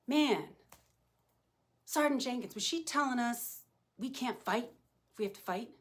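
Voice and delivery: lightly imitated officers' complaint; mildly mock the confused trainees; grumbling recruits. Sergeant mimicking what officers will say tonight, mildly mock complaining. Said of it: "are you gonna say".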